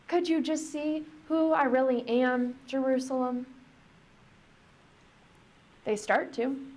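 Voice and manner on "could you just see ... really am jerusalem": higher, longing plea; pleading lament. Retold or imitated. Jesus begging Jerusalem to see him. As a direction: ache to be truly seen. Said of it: "and the groaning".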